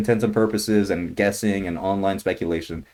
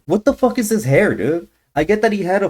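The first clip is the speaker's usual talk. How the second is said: much higher and louder, rising in disbelief; incredulous yell; 11 semitones higher, 5 dB louder than usual. Real, not acted. Ranting to viewers about the hero's hair, incredulous yell. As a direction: yell it like you can't believe it.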